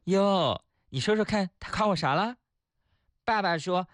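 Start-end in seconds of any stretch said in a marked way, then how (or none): 0.0-2.4 higher-pitched, pleased-with-herself mum; 得意的妈妈. Acted. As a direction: play a mum fishing for the compliment. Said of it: "妈妈得意地说". (得意洋洋的妈妈)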